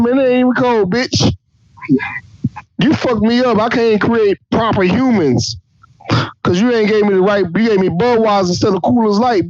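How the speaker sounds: whiny complaint about warm Budweiser; God as a beer-bitching dude. Retold or imitated. God voiced as drunk complainer.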